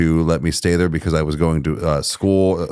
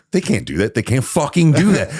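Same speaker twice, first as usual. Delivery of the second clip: livid; 5 semitones higher, faster than usual. Retold or imitated. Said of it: "I was livid".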